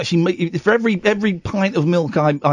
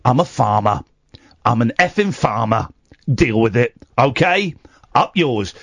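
defiant; 4 semitones lower than usual. Acted. Defiant low declaration.

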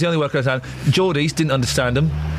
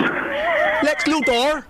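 incredulous; 10 semitones higher, much slower than usual. Real, not acted. Mocking caller's answer.

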